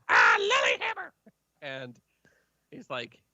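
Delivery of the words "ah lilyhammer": high, happy recognition; light up at the name; high delighted NPC. Acted. GM voicing the NPC hearing his name, high and delighted. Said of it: "He goes".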